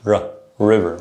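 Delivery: "river" with tongue pulled back for the R; English R. Shown as a demonstration. Teacher repeats the English example, back-tongued R. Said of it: "the tongue is in the back of the mouth".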